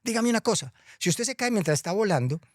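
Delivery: a hint of a stern, high scolding; cross Death. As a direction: scold him like a cross teacher. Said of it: "muy brava". (la muerte regañando, un poco brava)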